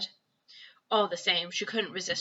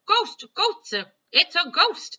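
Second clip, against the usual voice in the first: high, loud panicked cries of ghost; panicked yelling; 9 semitones higher, 8 dB louder, slower than usual. Acted. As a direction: yell it like a terrified crowd. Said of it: "everyone is yelling".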